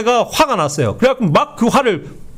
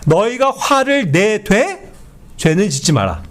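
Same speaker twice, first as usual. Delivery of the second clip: slow scripture reading; slower than usual. Shown as a demonstration. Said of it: "이렇게 돼 있어요".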